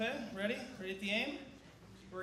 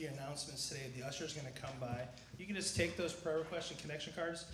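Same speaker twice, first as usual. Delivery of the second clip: talking around a cough drop; mouth full; 3 semitones lower, 3 dB quieter than usual. Real, not acted. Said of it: "I have a cough drop in my mouth".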